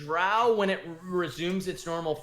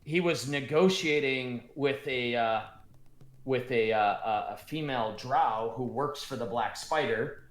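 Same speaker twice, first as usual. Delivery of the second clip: dwarf Gundren; 3 semitones lower than usual. Acted. DM voices dwarf recounting.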